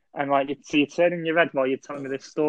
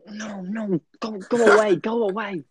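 scared shooing voice; 6 semitones higher than usual. Retold or imitated. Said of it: "They're going".

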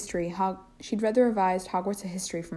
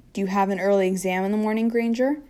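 deadpan; 2 semitones higher, 5 dB louder than usual. Acted.

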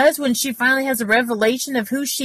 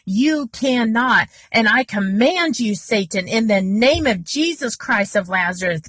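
demo rebuke. Shown as a demonstration. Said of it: "I'm saying".

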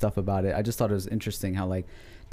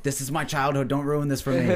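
whiny grown fan; 4 semitones higher than usual. Retold or imitated. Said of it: "Joey is one of those people".

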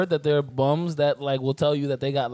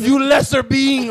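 dragon voice; 10 semitones higher, 4 dB louder, slower than usual. Pretend. Alien taunting weaker human.

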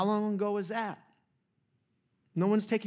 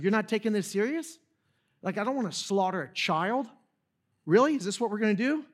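offended Goliath; 3 semitones higher, 3 dB louder than usual. Retold or imitated. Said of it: "he's offended".

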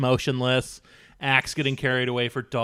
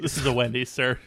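deadpan employee; 4 dB quieter, faster than usual. Acted. Deadpan employee after the rant.

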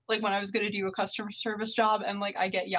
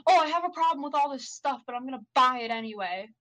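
mimicked complainer; 3 semitones higher than usual. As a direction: imitate a complaining customer, pitched up at first. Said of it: "everybody who's like".

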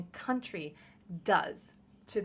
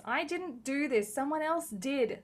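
higher, louder imitation of online yellers; mock indignant yelling; 6 semitones higher, 6 dB louder than usual. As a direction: yell it defensively, mocking the complainers. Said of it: "yell at me being like".

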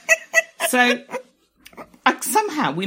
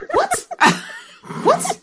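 surprised; 6 dB louder than usual. Real, not acted. Shocked by the question.

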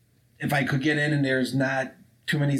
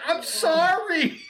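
sing-song sorry; much slower than usual. Retold or imitated. Harley apologizing as thug flees.

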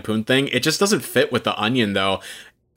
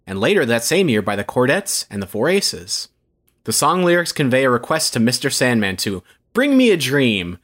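announcer voice. Pretend. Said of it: "put that announcer voice on".

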